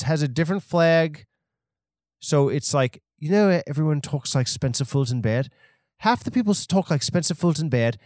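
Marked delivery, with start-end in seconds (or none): 3.7-8.0 lightly put-on English accent; a hint of mock British. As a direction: imitate an English voice type. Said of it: "two types of voices in England".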